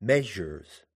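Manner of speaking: MEASURES with the weight on the first syllable; trochaic stress. Shown as a demonstration. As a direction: say "measures" as MEA-sures, falling away. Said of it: "is trochaic".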